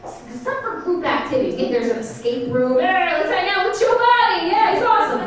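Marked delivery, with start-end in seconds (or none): 2.8-5.2 high, bright friendly call; a loud, higher happy shout; eager cheer. Shown as a demonstration. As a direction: cheer like a pal inviting you. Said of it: "That was less, right? That was better".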